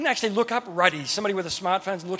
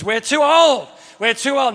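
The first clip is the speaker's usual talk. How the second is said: raised, louder acted objection; mock protest; 4 semitones higher, 6 dB louder than usual. Sarah scoffing at a promised child, raised mock protest. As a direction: protest it higher, then ease slightly.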